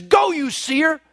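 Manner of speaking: mock angry king ordering him away; a hint of a furious king. King Amaziah driving the prophet out, mildly angry. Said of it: "he says".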